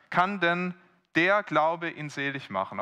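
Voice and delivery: "Kann" lifted high, "der" pressed with a fall; stressed question. Shown as a demonstration. Preacher to congregation, stressing "Kann" and "der". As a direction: push "Kann" up and lean on "der". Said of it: "Auf die Betonung kommt's an".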